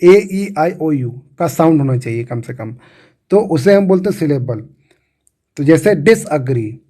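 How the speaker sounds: ordinary delivery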